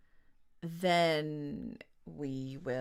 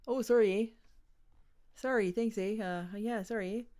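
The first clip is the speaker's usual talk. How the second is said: put-on Canadian accent; 3 semitones higher than usual. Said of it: "I could just say it like Kick".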